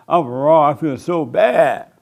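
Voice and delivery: mock anguished confession; out loud self-blame. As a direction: cry it out as if beating yourself up. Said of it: "You say out loud".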